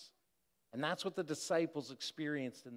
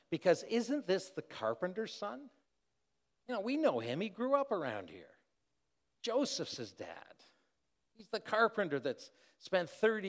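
incredulous; 3 semitones higher than usual. Acted. Townspeople acting out disbelief about Jesus.

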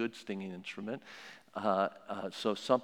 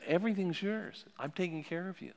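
God's voice; 8 semitones higher than usual. Acted. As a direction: speak as God promising care. God speaking to Adam.

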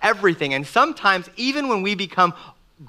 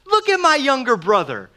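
joyful celebration; 5 semitones higher than usual. Pretend. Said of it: "Cain should be like".

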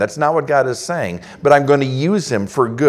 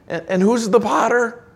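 high mock-ironic questions from God; God's rebuke; 8 semitones higher than usual. Preacher voicing God questioning Israel, ironic. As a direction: needle them with pointed questions. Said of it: "God is saying".

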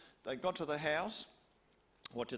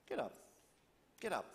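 gentle call; 4 semitones higher than usual. Acted. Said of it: "just like on the cartoon we saw".

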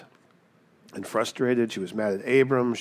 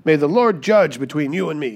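raised, higher reading of an angry wife; indignant accusation; 5 semitones higher, 4 dB louder than usual. Acted. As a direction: read it as a wife scolding her husband. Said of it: "She says".

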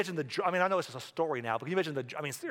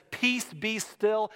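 slow command; 5 semitones higher, much slower than usual. Retold or imitated. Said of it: "Jesus looked at the storm and said".

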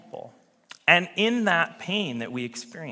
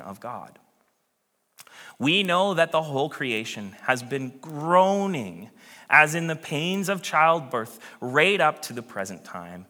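measured, solemn reading of scripture. Acted.

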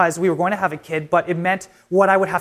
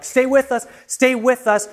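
higher-pitched retold emergency plea; urgent plea; 5 semitones higher than usual. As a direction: imitate paramedics urging someone to hold on. Retold paramedics pleading with dying wife.

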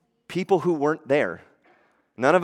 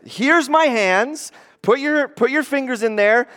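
gentle invitation; 9 semitones higher, 4 dB louder than usual. Retold or imitated. Jesus voiced inviting Thomas.

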